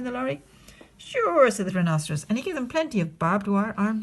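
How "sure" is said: booming rhino. Acted. Rhinoceros answers.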